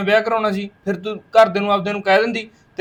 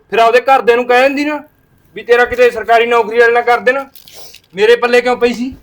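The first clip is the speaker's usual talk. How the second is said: angry shout; 7 dB louder than usual. Acted. Husband shouts in the quarrel.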